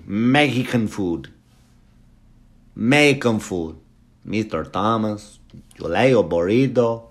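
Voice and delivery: badly faked Italian accent. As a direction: attempt a clumsy mock Italian accent. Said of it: "Italian accent I did there".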